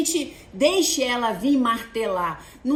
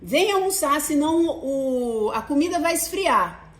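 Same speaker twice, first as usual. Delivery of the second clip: calling daughter; slower than usual. Retold or imitated. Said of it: "eu chego assim".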